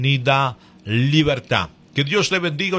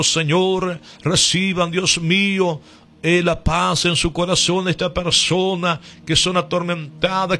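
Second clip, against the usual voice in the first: earnest, rhythmic intercession in short phrases; fervent prayer. Real, not acted. Radio preacher praying for the sick, fervent prayer. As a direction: plead with God in a steady, insistent cadence.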